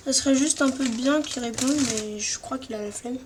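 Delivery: talking while eating chips; crunching chips. Real, not acted. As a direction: speak through a mouthful of chips. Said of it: "Désolé, je mange des chips".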